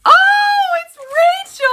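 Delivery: very high, loud delighted cry; gift-opener squealing the friend's name; excited squeal. Real, not acted. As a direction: shriek with happy surprise. Discovers the sender of the gift.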